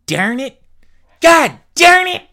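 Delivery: high, loud central New York "God darn it" with an odd vowel in "darn"; central New York accent. Retold or imitated. Imitating the teacher's central New York accent, high and loud. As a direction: bark "Darn it" central New York style, rising to a yelp. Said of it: "one of those weird accents".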